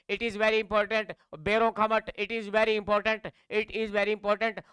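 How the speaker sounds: each word slow and deliberate; drawn-out teacher emphasis; slow emphatic drill. Shown as a demonstration. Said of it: "very important है". (हर शब्द धीरे और ज़ोर देकर)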